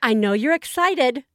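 mom voice. Retold or imitated. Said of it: "she's like".

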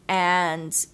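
a hint of a cooing psychic; fortune teller voice. Imitating the psychic who read her palm.

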